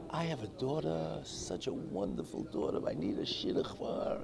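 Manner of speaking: mildly imitating a crying mother, softly plaintive; retold tearful plea. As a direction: lightly plead as if through tears. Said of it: "other lady is standing there crying".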